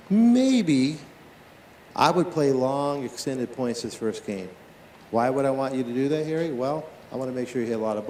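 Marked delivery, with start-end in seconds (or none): 0.1-4.5 slow coaching advice. Pretend. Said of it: "I would say".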